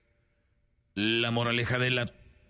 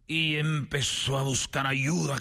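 normal talking voice

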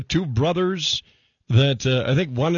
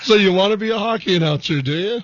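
Howard Stern movie quote; 4 semitones higher, 4 dB louder than usual. Acted. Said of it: "like, the Howard Stern movie".

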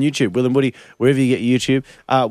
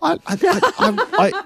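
laughing stammer; slower than usual. Retold or imitated. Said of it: "they're like".

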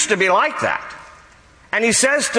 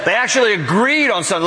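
said through a laugh, a bit quicker; laughing disbelief; faster than usual. Shown as a demonstration. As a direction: chuckle at the absurd idea. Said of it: "Go with me, use your imagination".

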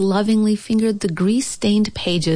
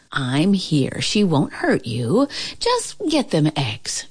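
softly. Acted. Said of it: "Grandma said softly".

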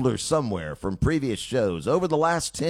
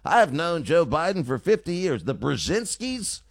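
cocktail-party chatter; 5 semitones higher than usual. Retold or imitated. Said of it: "talking like he was at a family cocktail party".

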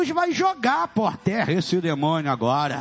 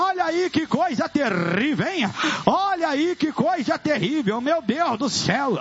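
raised-pitch preacher's exclamations; exorcism preaching; 6 semitones higher than usual. Real, not acted. Pastor exclaiming at the terrible thing, full-force exorcism preaching. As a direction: cry out in dread wonder, pitch held high.

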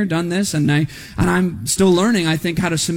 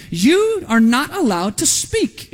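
retold command; 4 semitones higher, slower than usual. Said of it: "is what Jesus said to these demons".

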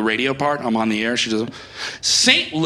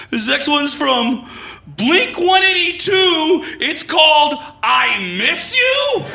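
radio intro; 3 semitones higher, slower than usual. Acted. DJ song intro.

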